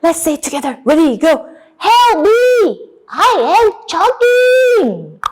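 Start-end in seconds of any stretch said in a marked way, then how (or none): 1.8-5.2 high, drawn-out desperate call; acted choking wolf's plea; cry for help. Shown as a demonstration. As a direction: lead the class in wailing for help. Leads class in wolf's plea.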